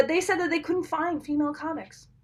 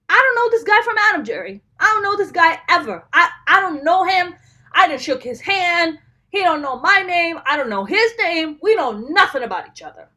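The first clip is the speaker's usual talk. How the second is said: loud, fast-rising outrage, higher and louder; heated rant; 3 semitones higher, 4 dB louder than usual. Real, not acted. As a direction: vent at the stranger who mocked you. Angry rant about rude comic.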